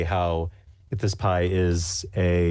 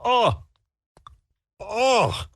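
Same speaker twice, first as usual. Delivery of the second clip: high strained oh oh oh; judge's pained oh; 14 semitones higher, much slower than usual. Acted. Judge reacts to the tart pie, high pained oh. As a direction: groan it out like a soured judge. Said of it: "and he's like".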